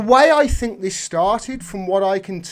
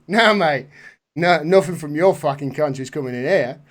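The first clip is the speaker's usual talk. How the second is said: mock Aussie refusal in a rough attempt at the accent; hammed-up Australian accent; bad Australian accent; 4 semitones lower than usual. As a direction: put on a poor Australian accent. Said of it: "Worst Australian accent ever".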